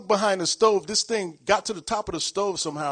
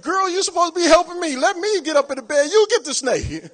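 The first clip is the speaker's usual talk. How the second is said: indignant plea; 8 semitones higher, 7 dB louder than usual. Retold or imitated. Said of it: "I'm like".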